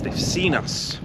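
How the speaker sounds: hushed whisper; a quick whisper on spotting guard dogs. Real, not acted. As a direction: whisper so the dogs won't notice.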